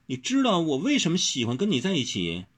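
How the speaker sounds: high, tender question; soft-voiced asking. A narrator's reading. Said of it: "就柔声地问王小石".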